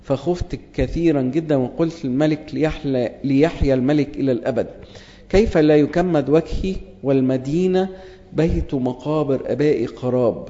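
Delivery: measured formal Bible reading; scripture reading. Acted. Preacher reading Nehemiah to the congregation, formal and measured. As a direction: read the verses like a lector.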